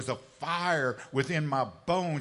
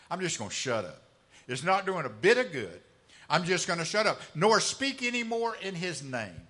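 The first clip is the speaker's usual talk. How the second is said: louder, fed-up declaration; frustrated outburst; 3 semitones higher, 5 dB louder than usual. Acted. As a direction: throw the words out, sick of it all. Preacher voices discouraged Jeremiah.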